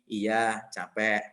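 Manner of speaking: a calm, grateful husband's answer; kind reply. Retold or imitated. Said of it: "Kan bisa aja kita jawab gini".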